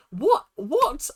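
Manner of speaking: two high, loud, questioning yelps; baffled disbelief. Acted. Viewer confused by the girlfriend's green light, baffled disbelief.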